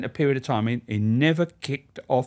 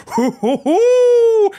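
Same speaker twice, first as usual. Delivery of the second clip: high, rising loud ape-like hoots; hooting cry; 10 dB louder, much slower than usual. Retold or imitated. Charlie hopping side to side and hooting at George, loud and high. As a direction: hoot like a monkey, climbing each time. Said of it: "he's gone".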